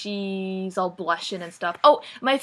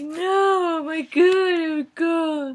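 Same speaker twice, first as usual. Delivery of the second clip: put-on higher and louder, breathless girlish freakout; mock squealing panic; 9 semitones higher, 4 dB louder, much slower than usual. Anna mocked freaking out about calling Christian, squealing. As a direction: ham up a flustered girl squealing. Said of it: "And Anna's like".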